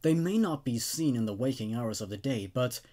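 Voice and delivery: steady, measured horror narration; story narration. A narrator's reading. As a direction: read it like a creepy campfire tale. Reads second creepypasta story aloud.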